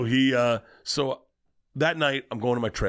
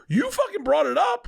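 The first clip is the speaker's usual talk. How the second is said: laughing; 4 dB louder than usual. Real, not acted. Laughing through his own punchline.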